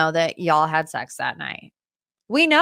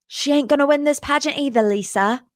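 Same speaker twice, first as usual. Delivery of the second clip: higher, fast quoted catchphrase; put-on voice, rattled off higher; James Kennedy impression; 5 semitones higher than usual. Host quoting an iconic reunion line to Lisa, imitated. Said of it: "Let me try it again".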